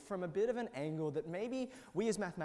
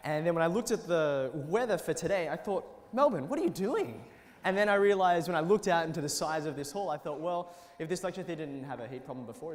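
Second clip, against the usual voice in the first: loud projecting classroom voice; teacher voice; 7 dB louder than usual. Real, not acted. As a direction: project to the back row. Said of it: "I'm using my teacher voice".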